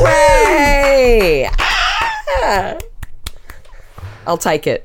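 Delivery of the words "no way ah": loud, high disbelieving shout; thrilled yell of disbelief; excited shout. Real, not acted. Reacting to winning the quiz.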